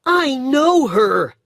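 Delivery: put-on boy shouting in shocked recognition; excited cry. A narrator's reading. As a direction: blurt it out, stunned he knows her. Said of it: "he cried".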